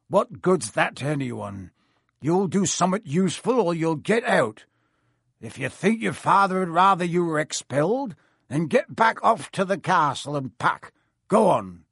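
lightly voiced stern giant; gruff Hagrid. Hagrid ordering Malfoy off, firm.

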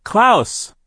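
high desperate cry. A narrator's reading. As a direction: call out his name in alarm. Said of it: "Violet cried".

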